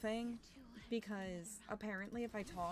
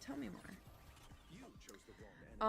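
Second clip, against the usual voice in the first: very slow, softer theatrical plea; drawn-out hushed tell me more; dramatic drawl; 5 dB quieter, much slower than usual. Acted. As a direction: stretch it out like a mock-dramatic request. Drawn-out repeat of the request.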